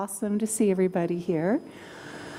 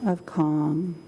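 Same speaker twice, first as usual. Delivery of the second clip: calm, slow meditation voice; guided meditation; slower than usual. Acted. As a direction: guide them gently into calm.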